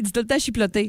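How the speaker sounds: "chiploté" with an extra l; mocking mispronunciation. Teasing a co-host about how he says "chipotle". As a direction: stress the wrong "chiploté". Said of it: "Chipotelé".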